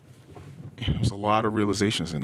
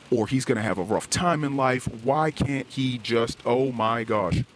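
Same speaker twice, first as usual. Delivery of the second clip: venting, somewhat raised and heated; retold angry rant; 4 semitones higher than usual. Father venting to his wife about defiant son, heated. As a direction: replay the fuming complaint, a bit up in pitch. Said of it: "threw my hands up in frustration".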